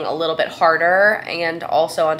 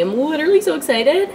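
real excitement; 9 semitones higher, 3 dB louder, faster than usual. Real, not acted. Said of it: "my hands are shaking".

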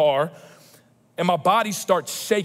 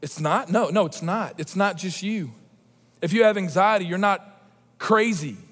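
gentle reassurance. Real, not acted. Tender reassurance to congregation.

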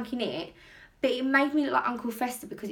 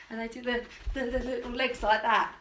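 ordinary talk

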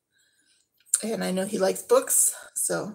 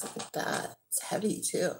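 whisper; 6 dB quieter than usual. Real, not acted. Admiring a heavy necklace.

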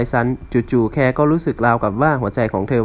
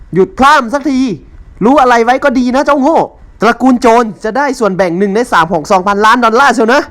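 shrieking rant; 10 semitones higher, 7 dB louder than usual. Acted. Mother-in-law keeps yelling.

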